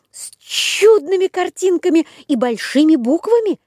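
high eager puppet voice; rubbery high squeaky toy. A narrator's reading. Buratino answers. (голос Буратино)

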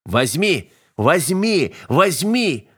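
insistent order, rising with each repeat; drawn-out, escalating command; pounding command. A narrator's reading. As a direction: hammer the order in, pitch climbing. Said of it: "приказ Айка бил в виски".

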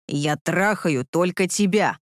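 low, slow growl; slow low emphatic growl. A narrator's reading. Repeats while thrusting.

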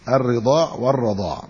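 "الرضاع والرضاع" said with both a and i after the ر; two vowellings. Shown as a demonstration. Teacher reading out both forms of the word, "الرضاع والرضاع" with fatha and kasra on ر. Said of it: "بفتح الراء وكسرها".

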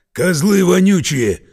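drawn-out howl of fury; trapped man howls insults at soldiers. A narrator's reading. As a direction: howl it out, slowed and strained. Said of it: "взвыл Синяков".

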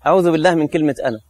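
fast, offhand saying; quick careless proverb; rattled-off proverb. Retold or imitated. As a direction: toss it off quickly like a stock phrase. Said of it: "بنقولها في الأمثال".

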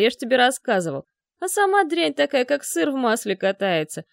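loud, spiteful rant; angry drunken rant. Acted. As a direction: rage against old enemies. Drunk man raging at enemies.

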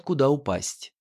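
usual speaking voice

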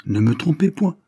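high, pressing, rising to loud; overwrought. A narrator's reading. Daughter begs the doctors for the truth, high and overwrought. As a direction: push the pitch up, near breaking. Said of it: "continua-t-elle avec surexcitation".

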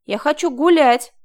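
loud defiant proclamation; defiant declaration. A narrator's reading. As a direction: challenge him openly. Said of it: "заявила вдруг она, вызывающе".

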